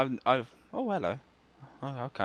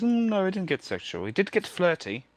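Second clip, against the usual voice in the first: grandad voice; 11 semitones higher, 3 dB louder than usual. Retold or imitated. Grandfather quoted, much higher.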